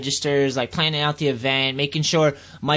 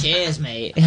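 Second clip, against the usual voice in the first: pirate voice. Retold or imitated. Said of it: "I went a little pirate at the end".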